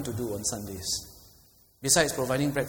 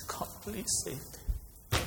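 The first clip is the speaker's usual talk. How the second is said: heartfelt plea; 6 semitones higher, 8 dB quieter than usual. Shown as a demonstration. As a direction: let the burden weigh on each word.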